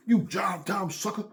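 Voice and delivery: high-pitched jive-talking tough guy; seventies movie jive. Retold or imitated. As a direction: imitate an old blaxploitation movie threat. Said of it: "That's how the fuck they was talking".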